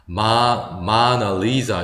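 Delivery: '마나리자' slowly, alternating strong and weak syllables; strong-weak rhythm. Shown as a demonstration. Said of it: "그래서 강약이 생기거든요". ('마나리자'를 천천히 강약 리듬으로)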